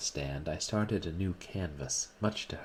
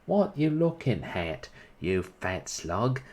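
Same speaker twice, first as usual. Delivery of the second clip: retold taunt; 3 semitones higher, 5 dB louder, slower than usual. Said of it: "I up and says".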